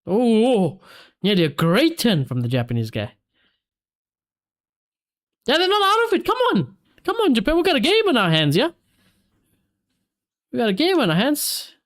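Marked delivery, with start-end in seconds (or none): 5.5-11.7 high, eager cheer for Japan; rally them on, pitched up; real cheer, urging the team on; excited cheering. Real, not acted.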